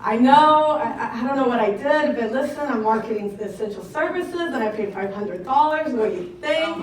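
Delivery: bursting out loud and breathless, half laughing; eager nervous rush, laughing over the words; excited confession. Retold or imitated. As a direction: blurt it to the boss like a giddy kid. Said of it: "I'm like".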